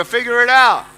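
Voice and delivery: emphatic and loud, rallying the audience; stronger. Shown as a demonstration. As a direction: say it stronger, like leading a crowd. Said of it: "say it stronger".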